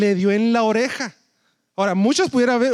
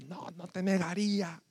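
negación apagada; 4 semitones lower, 12 dB quieter than usual. Acted. Pedro niega, voz distinta.

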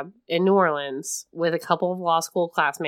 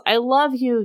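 mock yell; 6 semitones higher than usual. Retelling the heroine's cry to Garrick, mock yell. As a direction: imitate an ecstatic yell at half volume. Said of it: "and then she yells".

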